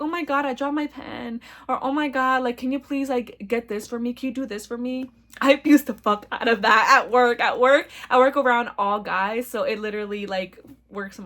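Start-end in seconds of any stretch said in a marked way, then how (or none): 0.0-5.1 flirty. Retold or imitated. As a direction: play the helpless flirt. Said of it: "flirty and seductive".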